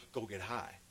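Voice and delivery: soft, low imitated prompting; tempting inner voice. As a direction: slip it in quietly, like a thought. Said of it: "that voice will tell you".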